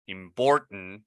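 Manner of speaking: "important" with a reduced "tn" ending; American important. Shown as a demonstration. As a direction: swallow the last vowel of "important". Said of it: "The accent".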